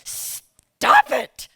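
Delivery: high, loud retold stop it; a loud, high mock warning; firm refusal. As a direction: shut her down firmly. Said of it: "And I said".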